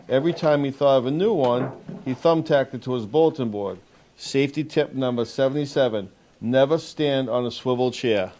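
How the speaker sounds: measured picture-book read-aloud with lifted key words; storybook narration for a young audience; reading to children. Acted. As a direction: read it out clearly to a group of young kids. Officer reads picture book to children.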